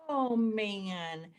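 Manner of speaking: long, drawn-out commiseration; empathetic sigh. Retold or imitated. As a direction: stretch both words out softly sympathetic. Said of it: "I love how Kelly said it".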